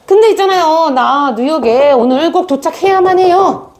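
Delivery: high, urgent plea to the clerk; mock heated insistence; excited demand. Angry lady pressing the clerk to get to New York. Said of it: "흥분해서 점원에게".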